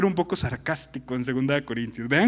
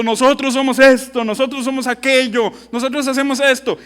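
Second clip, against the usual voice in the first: boastful mock; 4 semitones higher, 4 dB louder than usual. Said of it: "Sacaban pecho diciendo".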